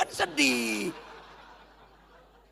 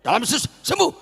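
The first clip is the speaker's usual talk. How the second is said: mock faith healer; 6 semitones higher, 3 dB louder than usual. Mocking a faith healer's prayer.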